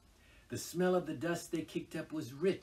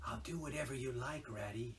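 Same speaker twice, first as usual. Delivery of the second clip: softer, tender, voiced; mild whisper; 6 dB quieter than usual. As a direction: comfort a sad friend in the dark. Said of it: "he whispered".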